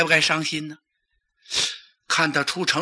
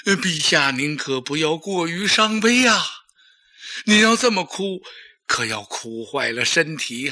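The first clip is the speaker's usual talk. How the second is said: mild coaxing. Acted. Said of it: "嘴里不住的劝呐".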